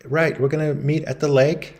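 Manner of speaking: a hint of a wife dropping hints on the phone; wife pretending on phone. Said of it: "And she's like".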